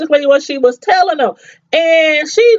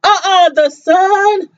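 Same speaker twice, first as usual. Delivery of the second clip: shocked disbelief; 6 semitones higher than usual. Retold or imitated. Telling viewers how she reacted to the son, higher and shocked. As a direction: replay the moment the twist landed.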